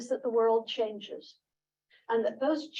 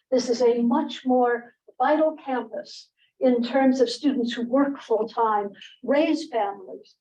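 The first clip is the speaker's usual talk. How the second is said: teacher voice; 5 dB louder than usual. Real, not acted. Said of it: "I'll attempt it using my teacher voice".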